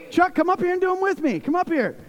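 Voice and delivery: high, quick playful summons; calling someone up. Real, not acted. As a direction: call a friend up on stage insistently.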